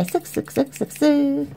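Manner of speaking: high, drawn-out singsong scissor noise; playful snipping sound. Pretend. Host telling children it is the scissors' turn, playful snipping sound. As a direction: chant the snips slowly, up high.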